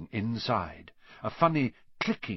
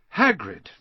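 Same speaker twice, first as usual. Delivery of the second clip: louder, firm call of the name; loudly; 6 semitones higher, 7 dB louder than usual. A narrator's reading. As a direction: raise the voice to grab his attention. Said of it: "said Harry loudly".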